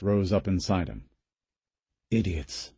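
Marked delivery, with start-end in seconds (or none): 2.1-2.7 contemptuous thought. A narrator's reading. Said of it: "he thought".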